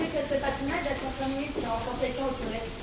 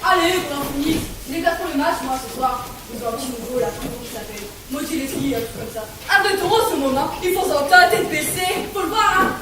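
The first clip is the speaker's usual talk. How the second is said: loud impatient chatter; 10 dB louder than usual. Acted. Juror impatiently talks about football.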